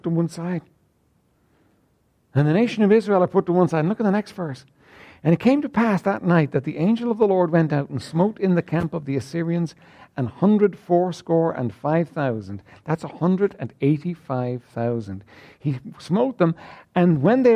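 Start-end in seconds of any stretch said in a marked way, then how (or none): 5.2-12.6 measured King James reading; solemn scripture reading to the congregation. Acted. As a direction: read the verses out with weight. Reads scripture aloud.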